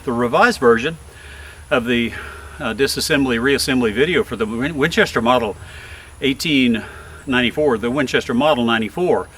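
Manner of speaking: breathy, winded delivery; out of breath. Real, not acted. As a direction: still panting a little. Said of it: "Sorry, I'm out of breath".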